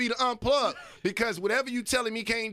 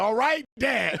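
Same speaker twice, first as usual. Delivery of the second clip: exasperated "All right, Dad", a bit louder; annoyed teen; 3 semitones higher, 4 dB louder, slower than usual. Retold or imitated. Son brushing off his lecturing father, fed up. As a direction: sigh it off like a fed-up kid. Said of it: "saying the shit".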